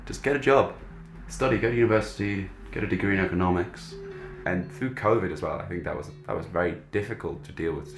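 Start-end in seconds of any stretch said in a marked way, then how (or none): 0.1-3.9 mock scolding. Voicing a scolding self-address.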